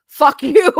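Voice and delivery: loud, drawn-out swear; defiant curse. Real, not acted. Swearing back at a voice critic, defiant. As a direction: punch it out slowly and loudly.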